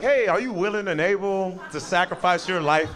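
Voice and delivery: lightly voiced flight attendant, pitched a little up; a hint of a cabin crew safety question. Flight attendant asks exit-row passenger to help, lightly acted official voice. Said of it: "the flight attendant's like".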